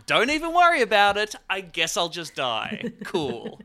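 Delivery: breezy, careless, loud mock indifference; bored diva shrugging off death; bitchy. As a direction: toss it off like it's nothing. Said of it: "a really bitchy thing to say".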